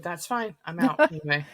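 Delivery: muffled, hollow mic sound; like talking inside a tin can. Real, not acted. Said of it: "you sound like you're in a tin can".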